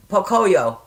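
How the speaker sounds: "Pocoyo" said evenly, falling at the end; careful name pronunciation. Shown as a demonstration. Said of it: "Let me say it in my head".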